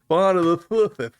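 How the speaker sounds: "Slithith" with a mock lisp on the final th; "Slithith" teasingly lisped. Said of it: "lisping too hard".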